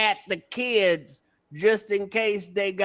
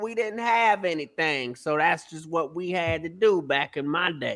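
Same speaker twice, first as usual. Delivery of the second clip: ordinary talk, nothing marked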